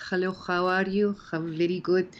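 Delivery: imitating her old Spanish-tinged English accent, "how" with a rough Spanish x; prim schoolgirl greeting in a light Spanish-tinged accent. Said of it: "I'm like this".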